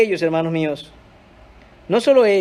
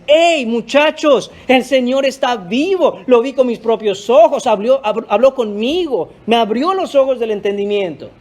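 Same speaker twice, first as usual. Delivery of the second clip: eager, raised call to the disciples; excited Mary. Acted. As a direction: burst in with joyful news. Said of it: "Está María aquí diciéndoles".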